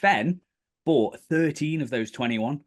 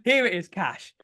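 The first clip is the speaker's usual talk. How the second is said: eager matey; 6 semitones higher, 6 dB louder than usual. Retold or imitated. Retelling eager handover of cash.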